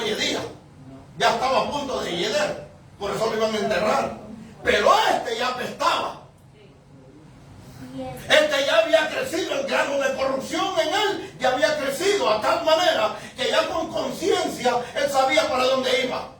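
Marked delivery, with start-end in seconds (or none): 4.6-16.3 preaching shout. Real, not acted. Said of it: "preacher building to a shout".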